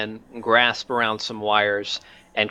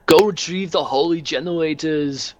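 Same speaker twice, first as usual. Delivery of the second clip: commanding order; 7 semitones higher, 4 dB louder than usual. Acted. Crumb commands engine seer.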